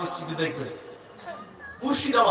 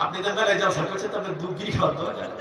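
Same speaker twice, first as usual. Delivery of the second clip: laughing; 2 semitones lower, 4 dB quieter, much faster than usual. Retold or imitated. Repeating the boy's cheeky question.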